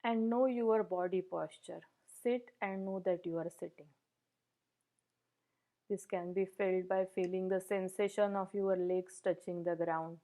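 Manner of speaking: even, unhurried meditation guidance with long pauses; guided meditation. Real, not acted. Meditation teacher settling the group into posture and breath, guided meditation. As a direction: gently guide listeners through settling the body, leaving space between phrases.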